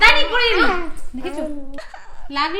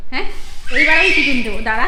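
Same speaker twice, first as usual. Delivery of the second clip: put-on louder playful threat to the child; hammed-up parent threat; mock scolding; 4 dB louder, faster than usual. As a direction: pretend to be cross, half-laughing.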